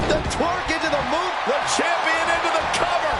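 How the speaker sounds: hyped play-by-play call; wrestling commentator. Acted. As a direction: call the match live with energy.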